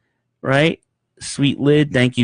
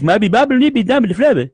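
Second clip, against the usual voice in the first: numbed mouth mumble; 9 semitones higher, 3 dB louder than usual. Retold or imitated.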